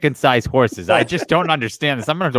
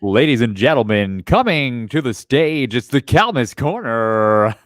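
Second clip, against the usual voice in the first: strip club DJ voice; slower than usual. Pretend. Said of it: "say it in a strip club D J voice".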